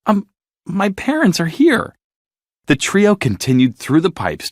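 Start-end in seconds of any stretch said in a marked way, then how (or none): 0.1-1.9 earnest plea. A narrator's reading. Dory pleading.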